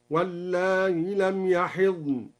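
chanted "واللائي" with short madd and softened hamza. Shown as a demonstration. Sheikh demonstrates al-Duri's reading, short madd on "واللائي" with softened hamza. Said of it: "الهمزة مع المد والقصر".

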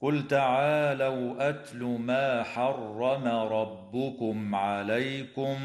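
slow, melodic tajweed chant; measured cantillation of scripture; Quran recitation. Shown as a demonstration. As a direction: intone the verse like a reciter. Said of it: "فقول الله تعالى".

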